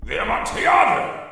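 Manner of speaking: sudden high cry of the name; shouted. Acted. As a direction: burst out with the wine's name, startled. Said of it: "shouted my friend".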